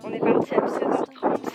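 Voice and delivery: windy outdoor recording; wind on mic. Real, not acted. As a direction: wind blowing across the mic. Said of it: "j'espère que vous m'entendez avec le vent".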